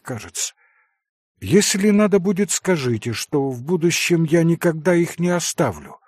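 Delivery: lightly voiced distraught young woman; a hint of a distraught heroine sending him off; Katya, agitated. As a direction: push him away, strained and tense.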